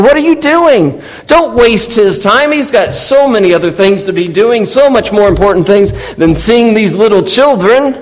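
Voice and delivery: snooty scolding. Retold or imitated. Disciples snubbing the parents.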